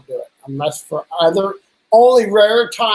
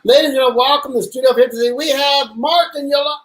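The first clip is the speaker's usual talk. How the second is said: mock announcer intro; 5 semitones higher than usual. Host retries the guest intro after being told to read the name, mild emcee voice. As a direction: announce the guest like a half-serious showman. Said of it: "better do that intro".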